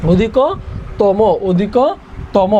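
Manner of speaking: "অধিকতম" very slow, in two chunks, odhiko-tomo; demonstrated pronunciation. Shown as a demonstration. Teacher repeats the answer for the class, "অধিকতম" slowly broken up. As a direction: draw out "অধিকতম" with round o sounds to the end. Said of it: "অধিকতম হবে কি?".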